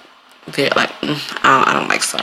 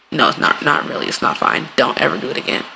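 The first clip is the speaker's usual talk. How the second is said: dropped politeness; 4 semitones lower than usual. Acted. Drops the fake politeness.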